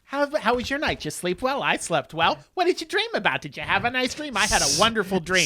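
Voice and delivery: lilting imitation of polite small talk; mock breakfast chatter. Housemates chatting over breakfast, mock sweet. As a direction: play chirpy housemates trading pleasantries.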